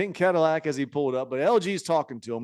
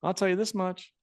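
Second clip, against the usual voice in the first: higher mock Honky warning; lightly voiced veteran lecturing; Honky Tonk Man; 5 semitones higher than usual. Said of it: "And he goes".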